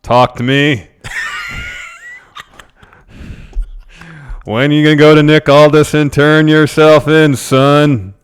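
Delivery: loud, hammed-up shouting interviewer; Ed Edwards impression. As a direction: yell the question at the wrestler. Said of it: "I can be Ed Edwards".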